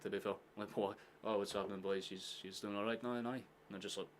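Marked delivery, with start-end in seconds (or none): 0.8-3.3 lightly voiced Donegal accent; a touch of Donegal lilt. Chatting to the boys about her, light Donegal accent. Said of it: "nothing beats the Donegal accent".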